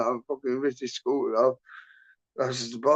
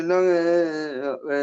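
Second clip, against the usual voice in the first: slow, slightly raised mock-dazed mumbling of a crash victim; 3 semitones higher, much slower than usual. Rescued rider answering his mates, mock dazed. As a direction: imitate a dazed mate, drawn out. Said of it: "a bit dazed and that".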